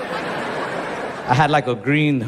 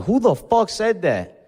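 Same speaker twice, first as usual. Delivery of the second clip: higher, drawn-out mock outrage; slow, hammed-up demand to know who spoke; retold angry challenge; 5 semitones higher than usual. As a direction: act out getting mad too fast. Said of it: "I got mad too fast".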